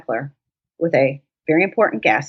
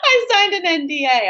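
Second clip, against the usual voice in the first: flustered guest; 4 semitones higher than usual. Retold or imitated. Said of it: "he was like".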